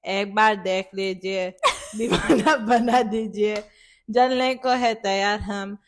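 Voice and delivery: fast, flat, half-laughing recital; bored recital. Retold or imitated. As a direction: rattle off the rhyme. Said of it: "who talks like this?".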